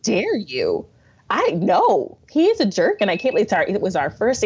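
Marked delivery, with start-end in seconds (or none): 0.0-0.9 slow, offended retort; mock indignation. Woman offended by her friend's pregnancy question, slow indignation. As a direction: drag out the outrage as a half-serious replay. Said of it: "I was infuriated".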